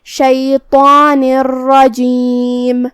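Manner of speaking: شیطان الرجیم with the noon merged into a doubled ر, no nasal hum, slowly; idgham without ghunna. Shown as a demonstration. A teacher demonstrating idgham without ghunna. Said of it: "بغیر غنہ سے لیکن تشدید کے ساتھ".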